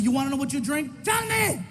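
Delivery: mock angry fast shout; a touch of a real shout; angry retort. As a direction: snap back at the heckler. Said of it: "I said".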